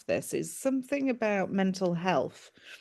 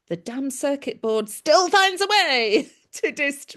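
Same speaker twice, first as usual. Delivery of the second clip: laughing; 6 semitones higher, 7 dB louder than usual. Real, not acted. Laughs mid-sentence.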